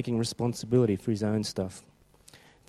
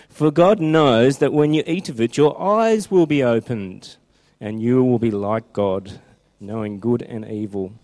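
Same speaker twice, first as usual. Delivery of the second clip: serpent voice; 5 dB louder than usual. Acted. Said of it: "That's a good serpent voice".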